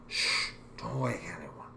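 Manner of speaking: put-on slow drunken whisper; sneaking in late. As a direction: hush it like sneaking home. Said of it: "in a drunken stupor".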